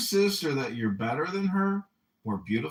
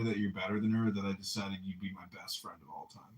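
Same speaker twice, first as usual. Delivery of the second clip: a quick hushed aside; hushed whisper; 8 semitones lower, 8 dB quieter, faster than usual. Acted. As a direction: drop to a whisper, fast. Teasing confession to his friend.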